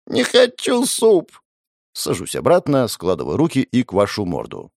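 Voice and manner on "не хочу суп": much higher, very slow drawn-out whine; whiny child. Acted. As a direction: stretch it out like a stubborn kid. Child's protest. (протяжное детское нытьё)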